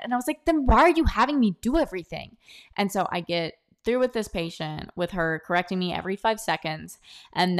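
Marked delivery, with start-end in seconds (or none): 0.4-2.4 higher-pitched, incredulous retort; exasperated challenge. Retold or imitated. New trainee questions the rude trainer, exasperated. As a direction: push back, pitch swinging up.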